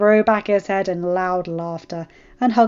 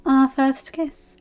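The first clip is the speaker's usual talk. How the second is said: slow, fond, higher; fondly; 5 semitones higher, 4 dB louder, much slower than usual. Acted. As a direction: savor the memory tenderly. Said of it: "Dany said fondly".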